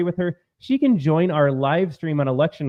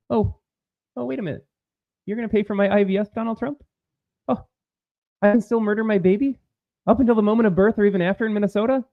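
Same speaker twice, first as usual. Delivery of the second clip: higher, hammed-up fake shock; sarcastic mock dismay; 4 semitones higher, faster than usual. Host mocking a crying voter's fears, sarcastic fake dismay. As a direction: gasp in mock horror at each good news.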